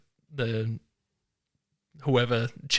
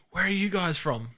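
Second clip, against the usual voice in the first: higher-pitched imitation of a Louisiana accent; 7 semitones higher than usual. Louisiana shopper chats to visiting hunters, light Louisiana accent. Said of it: "thick Louisiana accent".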